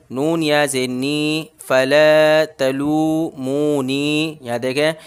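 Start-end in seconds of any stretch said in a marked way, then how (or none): 1.6-4.4 very slow फला तलू मू नी, ला, मू, नी held long; slow recitation; stretched vowels. Shown as a demonstration. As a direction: hold ला, मू, नी, keep फ and त short. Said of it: "लाम खींचेगा".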